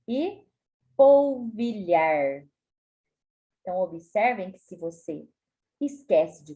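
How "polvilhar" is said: polvilhar drawn out slowly, final R clear; slow dictated polvilhar. Shown as a demonstration. Teacher dictating verbs, slow polvilhar. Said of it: "verbos no infinitivo".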